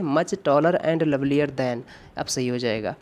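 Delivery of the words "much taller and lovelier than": corrected phrase read out very slowly. Shown as a demonstration. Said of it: "much लिख सकते हैं". (सुधरा वाक्य धीरे-धीरे)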